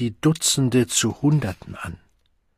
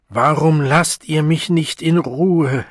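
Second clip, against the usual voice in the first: slow, louder, pleading in his anger; almost plaintive anger; 4 semitones higher, 5 dB louder than usual. Acted. The Savage pleads with the crowd, slow and plaintive. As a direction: wail it out half in rage. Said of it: "fast klagend fragte er es in seinem Zorn".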